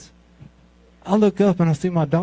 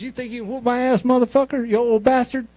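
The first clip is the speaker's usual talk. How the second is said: high-pitched taunt, building louder; mock belligerent insult in a raised voice; taunting challenger; 8 semitones higher, 3 dB louder than usual. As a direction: imitate a cocky challenger squaring up. Acts opponent taunting him before fight.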